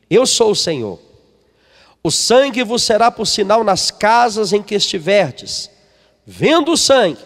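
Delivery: measured, solemn Bible reading; a lightly solemn reading of scripture. Acted. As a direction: read the verses out with weight. Reads scripture aloud to congregation.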